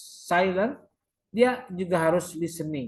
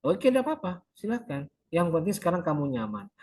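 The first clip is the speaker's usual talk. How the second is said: counselor reply demo. Shown as a demonstration. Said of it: "si konselor merespon".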